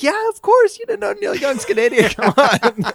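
high, exaggerated mock disbelief breaking into a laugh; playfully scolding a friend for not knowing; mock incredulous. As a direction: tease him like it's obvious, laughing. Mock scolding a friend about a singer.

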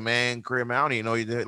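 put-on mumbled, unintelligible Southern accent; thick Southern accent. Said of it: "a real thick Southern accent".

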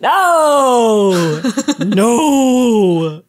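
loud wailing no, no, no; anguished cry. Acted. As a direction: cry out no like it hurts. Dramatic anguished refusal.

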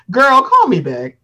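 cracking up at the co-host; laughing. Real, not acted. Laughing, telling her co-host to call back later. Laughing at the Juan Dixon story.

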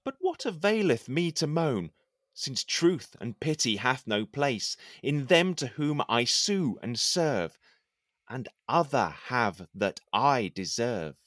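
slow, solemn poetic reading; poem recitation. Acted. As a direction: declaim it like a lovesick courtier. Recites his poem aloud.

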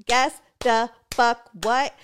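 slow, punchy hype-up; hype host. Real, not acted. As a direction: drag it out to build hype. Hyping up the guest arrival.

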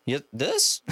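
high, teasing questions, mock innocent; pestering son. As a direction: imitate the boy pestering on purpose. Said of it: "he's like".

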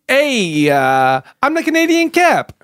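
high-pitched attempt at a Canadian accent. Student auditions for the coach, high Canadian accent. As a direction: try out a hesitant Canadian accent. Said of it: "with a Canadian accent".

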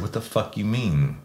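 imitating someone spoiling for an argument; belligerent suspect. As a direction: act out a combative suspect's comeback. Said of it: "he was real belligerent, y'all, a real asshole".

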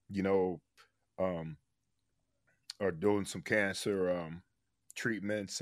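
subdued, soft, heartfelt; real emotion held back, trailing off softly; emotional. Real, not acted. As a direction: speak quietly through real emotion, with halting pauses. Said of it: "I can hear the emotion in your voice".

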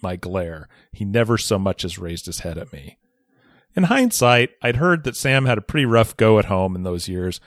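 measured, articulated read-aloud; story narration. A narrator's reading. Podcaster reading a listener's bullying story, narrating. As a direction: relish the wordy storytelling.

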